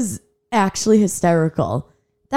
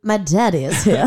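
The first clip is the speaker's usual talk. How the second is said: creepy voice. Retold or imitated. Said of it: "in a creepy voice".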